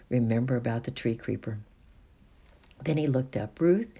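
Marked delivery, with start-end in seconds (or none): 3.6-3.9 higher and louder, eager; an eager boy calling Ruth. A narrator's reading. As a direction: call his sister's name eagerly. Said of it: "he said eagerly".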